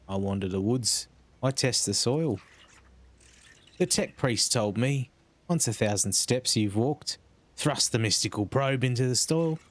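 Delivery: lightly put-on rustic accent, slowing over the ritual; a hint of a rustic country accent; rustic scout accent. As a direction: recite the tech priest's rite like a simple villager. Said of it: "I can't keep up with this accent".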